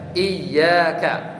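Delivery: "iyyaka" with a doubled, held y; "iyyaka" said iy-yaa-ka, double y; with tasydid. Shown as a demonstration. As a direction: press firmly on the y in "iyyaka". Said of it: "itu dengan tasdid".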